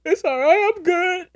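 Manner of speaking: hammed-up I'm-fine; mock brave. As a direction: pretend to be fine. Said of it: "I'm like".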